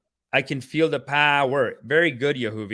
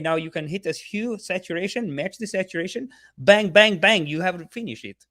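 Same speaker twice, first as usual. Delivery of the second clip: higher, sing-song mock Swedish teacher; hammed-up Swedish accent; 5 semitones higher than usual. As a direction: play a silly Swedish tutor, a bit higher. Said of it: "He's, like, Swedish or something".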